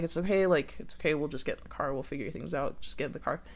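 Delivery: hushed, quick placating; soothing reassurance. Retold or imitated. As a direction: lightly imitate a cop calming someone, quietly. Cop soothes shocked girl, pushing her along.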